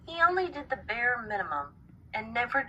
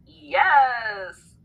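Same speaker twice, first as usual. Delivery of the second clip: loud shouted yes; yelled; 4 semitones higher, 5 dB louder than usual. A narrator's reading. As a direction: bark a happy yes. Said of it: "Wai yelled".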